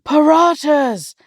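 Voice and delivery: high, drawn-out exclamation; excited food craving. Acted. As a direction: cry it out slowly, as the crowning craving. Climax of food craving in story.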